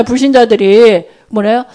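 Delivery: normal talking voice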